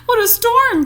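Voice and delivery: a small bird calling out high; twittering wren. Acted. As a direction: chirp it out like a little wren. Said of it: "twitters wren".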